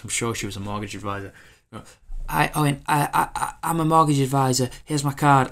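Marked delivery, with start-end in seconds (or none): 2.3-5.5 higher, louder, stiff sales patter; chirpy robotic saleswoman greeting; robotic sales pitch. Retold or imitated. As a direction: recite the pitch like a machine. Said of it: "it was so robotic".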